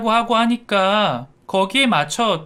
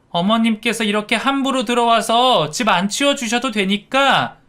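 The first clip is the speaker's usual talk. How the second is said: higher-pitched, affronted scolding; indignant daughter-in-law; 5 semitones higher than usual. Acted. Daughter-in-law telling mother-in-law off for cleaning uninvited, indignant. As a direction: tell her off with rising, incredulous questions. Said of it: "그런데 그때 며느리가".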